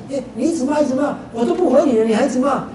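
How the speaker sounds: building from annoyed to a heated outburst; retold anger. Monk recalling barracks insults, rising retold anger. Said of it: "我就很生气了".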